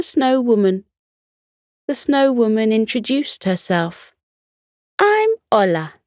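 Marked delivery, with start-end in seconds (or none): 5.0-5.9 cheerful, higher-pitched self-introduction; Ola. A narrator's reading. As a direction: introduce yourself cheerily in a high voice. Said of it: "she said cheerfully".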